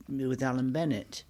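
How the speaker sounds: gentle northern storyteller voice; Alan Bennett. Retold or imitated. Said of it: "we started doing that kind of voice".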